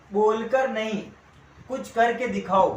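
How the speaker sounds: slow, emphatic motivational line; motivational declaiming. Shown as a demonstration. Teacher opening class with a motivational quote, declaimed slowly. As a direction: deliver it like a slogan, measured and punchy.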